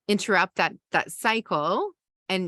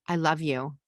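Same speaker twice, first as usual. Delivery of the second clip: put-on reassuring a screaming child; calm I love you. Shown as a demonstration. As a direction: say I love you gently to settle them. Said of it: "So you take your breath".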